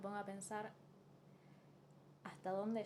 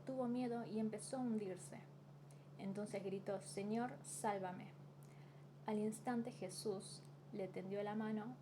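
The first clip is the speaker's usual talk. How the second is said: Bible reading. Acted. Reading Mateo fourteen to her viewers, measured scripture reading. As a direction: read the passage aloud with care.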